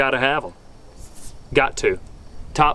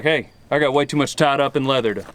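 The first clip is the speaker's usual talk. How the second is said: proud cowboy brag. Retold or imitated. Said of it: "you just stand up tall, like".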